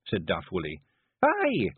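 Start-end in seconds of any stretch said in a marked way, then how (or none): 1.2-1.7 high, sharp Scots snap; snapping. A narrator's reading. Clan leader answering Daft Woolly, snapped. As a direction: snap back at him. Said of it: "snapped the Kelder".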